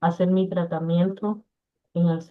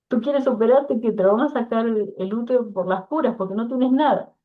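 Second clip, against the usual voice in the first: husband's teasing scold; 4 semitones higher than usual. Retold or imitated. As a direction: replay the husband chiding her, pitched up. Husband scolding her for crying.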